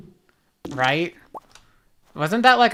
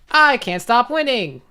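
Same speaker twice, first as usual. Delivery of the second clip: meme catchphrase; 5 semitones higher, 4 dB louder than usual. Retold or imitated.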